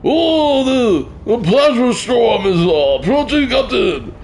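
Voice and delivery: high, drawn-out mock Asian accent; hammed-up alarm in caricatured Asian accent. Streamer as Harry Kim warning the captain, high mock Asian accent. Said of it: "do my Asian accent".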